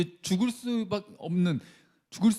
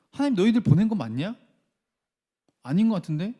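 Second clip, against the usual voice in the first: doubting challenge; 4 dB louder, faster than usual. Acted. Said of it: "이렇게 이제 의심하기 시작하는 거예요".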